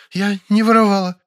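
high, frightened maid. Acted. Maid begs him not to call the police, frightened and high. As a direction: beg in a high scared voice.

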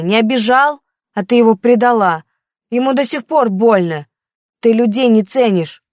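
a hurt daughter pushing back at her mother; teen daughter, defensive. Acted.

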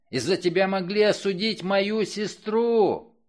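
high, loud, raging outcry; furious accusation. Acted. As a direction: rage at her, voice climbing high. Man's furious accusation of killer.

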